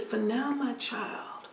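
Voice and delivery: elder whispering wisdom. Acted. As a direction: breathe it gently to her. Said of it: "He said".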